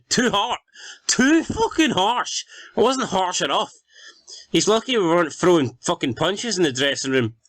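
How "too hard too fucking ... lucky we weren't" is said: outraged disbelief. Acted. Outraged at player's complaint.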